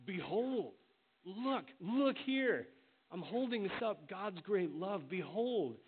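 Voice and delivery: high, slow, loud "Behold, look, look here"; emphatic Behold. Shown as a demonstration. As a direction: hold "Behold" up like a proclamation, slow and ringing. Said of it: "It's an emphasis to say".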